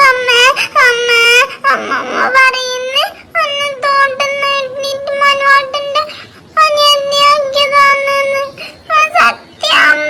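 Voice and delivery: tearful sobbing telling on grandma; crying complaint. Acted. Little girl sobbing to her mother about grandma's story. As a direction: whimper it out through tears. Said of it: "എന്തിനാ കരയുന്നേ".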